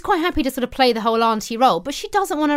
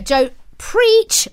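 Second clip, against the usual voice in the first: loud, high cheer of support; excited cheer; 9 semitones higher, 4 dB louder than usual. Real, not acted. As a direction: cheer her on loudly. Cheering the caller on.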